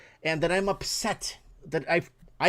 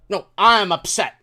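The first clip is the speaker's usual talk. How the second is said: angry mock retort; 4 semitones higher, 8 dB louder than usual. Mocking staff claim he's upset.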